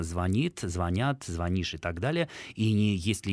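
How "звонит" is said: звонит with stress on the last syllable, зво-НИТ; correct stress. Shown as a demonstration. Radio expert gives the correct form: звонит, stressed зво-НИТ. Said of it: "фиксируется только одна форма".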